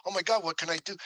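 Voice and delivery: exasperated. Retold or imitated. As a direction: throw up your hands in frustration. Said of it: "out of exasperation".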